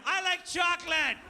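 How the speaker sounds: hammed-up falsetto cheer; fake cheerful decoy line. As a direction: pretend all is fine while terrified. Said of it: "a fake decoy conversation".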